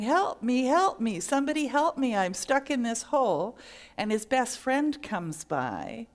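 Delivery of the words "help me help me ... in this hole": a bit louder cry for help; yelling for help. Acted. Stuck man yells for help a third time. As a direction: call up from the hole again. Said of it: "keeps yelling".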